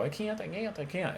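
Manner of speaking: squeaky, very high and soft helium voice. Shown as a demonstration. Coach demonstrates to client, high squeaky helium voice. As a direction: say it as if you just inhaled helium. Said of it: "sounding like ... inhale a balloon of helium".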